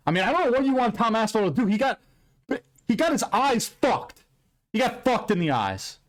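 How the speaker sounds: high-pitched, worked-up venting; loud venting. Real, not acted. Host venting to viewers about a fighter's poked eyes, loud and worked up. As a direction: raise the pitch in real exasperation. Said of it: "I'm sorry if I'm loud".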